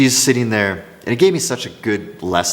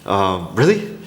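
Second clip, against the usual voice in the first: understated disbelief, pitched up on the final question; freaking out inwardly. Retold or imitated. Seller privately reacting to the couple's yes, mildly freaking out. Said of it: "I'm freaking out".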